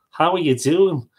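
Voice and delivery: badly faked Merseyside greeting; terrible Merseyside accent. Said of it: "Terrible, terrible Merseyside accent".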